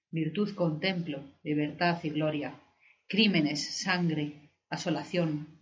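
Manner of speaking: measured, solemn verse recital; poetry declamation. Acted.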